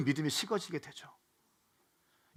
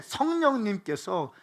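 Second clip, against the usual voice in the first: raised, loud preacher's cry of comfort; fervent preaching; 6 semitones higher, 8 dB louder than usual. Acted. Pastor to congregation in slump, loud fervent preaching. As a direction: preach it out to the whole hall, fired up.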